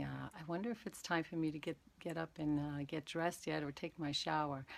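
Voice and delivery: teacher demonstrating a wandering mind during meditation, calm; guided meditation demo. Shown as a demonstration. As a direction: let each breath hang before the next word. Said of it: "So it'd be like this".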